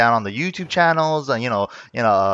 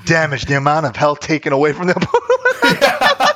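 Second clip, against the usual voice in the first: laughing disbelief. Retold or imitated. Quoting patch notes, laughing.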